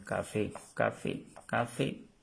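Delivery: "café" said softly, stress on the final é; pronunciation model. Shown as a demonstration. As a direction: model "café" just as in Spanish. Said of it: "La palabra café". ("café" igual que en español)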